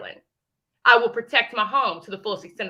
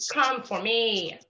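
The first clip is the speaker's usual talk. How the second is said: slowly, softer come-and-get-me; slow taunt to the rival; slow dare; 4 dB quieter, much slower than usual. Real, not acted. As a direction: drag out Come for me, quieter. Daring rival, repeated slower.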